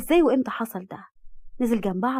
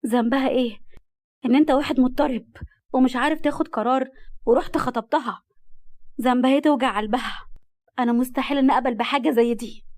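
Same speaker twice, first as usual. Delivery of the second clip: raised, indignant voice, louder throughout; angry refusal; 3 semitones higher, 4 dB louder than usual. Acted. Rimas angrily refusing Murad's proposal. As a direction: scold him for hurting Rahma.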